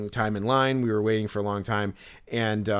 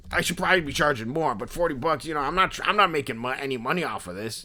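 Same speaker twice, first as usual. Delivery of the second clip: higher voice, lightly imitated hustler; intense Philly dude; 3 semitones higher than usual. Seller defending his price, lightly voiced Philly dude. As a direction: justify yourself as an in-your-face Philly guy. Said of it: "the impression that I was doing of him".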